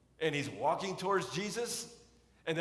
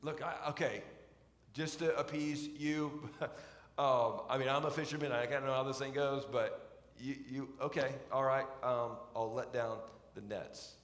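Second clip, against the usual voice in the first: hesitant grudging; 2 semitones lower than usual. Retold or imitated. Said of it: "Can you hear a tinge of hesitancy there?".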